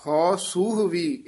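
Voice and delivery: "ਹਉ ਸੂਹ ਵੀ" measured, resting after "ਵੀ"; pause placement. Shown as a demonstration. Teacher marking the visram, pause after "ਵੀ". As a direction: come to rest on "ਵੀ". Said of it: "ਇੱਥੇ ਵਿਸਰਾਮ ਹੈ".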